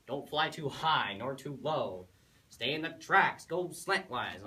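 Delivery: loud, emphatic list of warnings; nagging advice. Acted. Father warning his son before the flight, loud and nagging. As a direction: hammer out each instruction.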